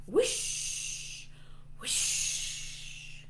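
drawn-out hissing whoosh; truck whoosh. Pretend. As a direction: imitate a fast truck zooming past. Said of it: "The truck goes whoosh".

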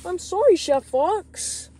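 loud blurted apology; loud high apology. Acted. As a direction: blurt out the sorry. Junior apologises to angry Chef.

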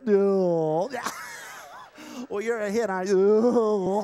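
high, loud puppet voice with gruff no; dummy voice for Jake. Acted. Ventriloquist voicing Jake's dummy, high and loud. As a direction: ventriloquist bit with a stubborn dummy.

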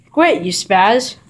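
slow, loud, drawn-out reprimand; scolding the dog slowly and loudly; stern slow scold. Real, not acted. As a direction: drag out the telling-off.

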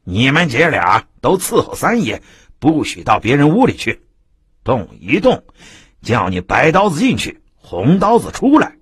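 mock yell of a drunk tyrant; bullying shout. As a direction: bark orders and threats. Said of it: "又听陶三嚷道".

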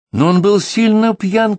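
very high, loud, drawn-out protest; agitated cry. A narrator's reading. Wife blurts out a defence at the table, crying out. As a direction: cry out at the top of your pitch. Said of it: "крикнула Тереза".

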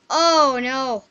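loud, rising dismay; sudden dread; alarmed oh no. Real, not acted. Realizing danger.

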